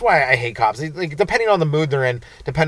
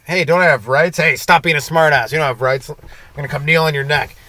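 loud, raised-pitch back-and-forth; mock heated quarrel; 3 semitones higher, 7 dB louder than usual. Driver and cop arguing over rights, mock angry. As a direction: bark it out like a street argument.

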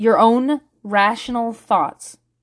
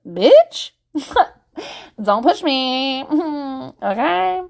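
sassy warning; 2 semitones higher, slower than usual. Retold or imitated. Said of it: "a little bit of a".

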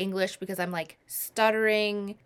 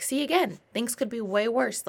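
upbeat self-reassurance; 3 semitones higher than usual. Retold or imitated. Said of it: "And I'm like".

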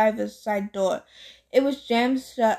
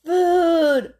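louder moan; 5 semitones higher, 5 dB louder than usual. Acted. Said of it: "Grover moaned a little louder".

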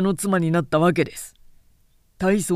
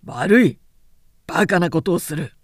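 scolding; 2 semitones higher, 4 dB louder than usual. Acted. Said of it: "叱りつける".

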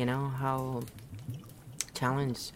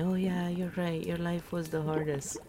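higher-pitched imitation of sulky repliers; mock agreement; 6 semitones higher than usual. Imitating people who don't get the humor, mockingly. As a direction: mimic them in a raised, put-upon voice. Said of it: "And then they start saying".

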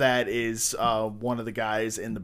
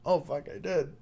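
dawning amazement; 5 semitones higher, 4 dB quieter than usual. Retold or imitated. Retold delayed self-amazement.

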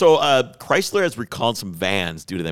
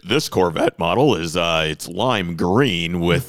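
auction announcer. Pretend. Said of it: "when you watch Mecum or Barrett Jackson".

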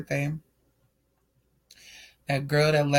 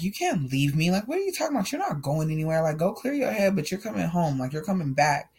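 begging; 3 semitones higher than usual. Retold or imitated. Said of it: "I was begging him not to leave me".

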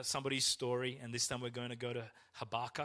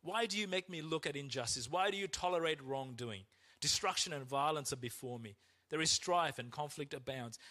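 Habakkuk's lament; 3 semitones higher than usual. Retold or imitated. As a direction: read it as a bitter complaint to God. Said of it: "He says".

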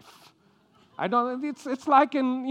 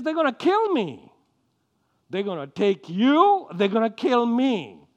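higher, louder fearful complaint; drama queen; 3 semitones higher, 5 dB louder than usual. Retold or imitated. Abraham panicking to his wife, a higher louder drama-queen complaint. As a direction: panic about yourself. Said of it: "he becomes a drama queen".

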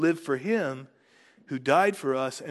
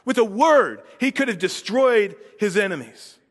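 higher, louder, indignant preaching; impassioned objection; 6 semitones higher, 4 dB louder than usual. Real, not acted. Preacher objecting to language of destroying enemies, impassioned and indignant. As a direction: object forcefully, driving each point home.

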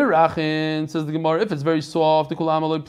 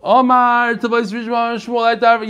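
high, loud Brooklyn-accented reading; 4 semitones higher, 3 dB louder than usual. Shown as a demonstration. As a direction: read the text out in a thick Brooklyn accent. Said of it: "I used to talk like that".

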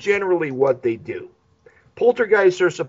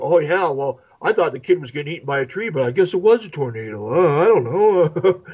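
stoned family. Retold or imitated. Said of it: "They're like".

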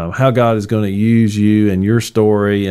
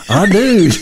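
mock meek groom; 10 semitones higher, 4 dB louder than usual. Mock wedding vow, sheep to slaughter.

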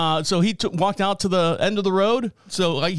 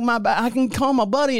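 stranded guy voice; 6 semitones higher than usual. Retold or imitated. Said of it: "He's like".

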